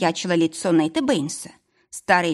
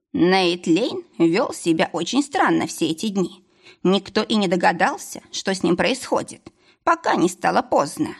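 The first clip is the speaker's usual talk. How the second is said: thoughtful. Acted. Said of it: "задумчиво проговорил Нейт Бэйнс".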